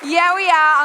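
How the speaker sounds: a cheeky call to the room; playful loud boast. Real, not acted. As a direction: shout it back proudly, grinning. Playful girls' night boast.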